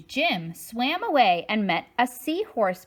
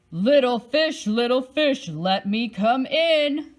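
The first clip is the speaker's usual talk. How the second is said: a lightly voiced big bad shark, a bit louder; shark's call; 5 dB louder than usual. Shark calling to the little fish at the door, lightly menacing. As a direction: coax the fish to open up, menacing. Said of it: "roared the shark".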